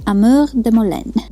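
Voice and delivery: a French touch on Amour de Molène, rolling it gently; French accent. Shown as a demonstration. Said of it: "let me try to do the accent".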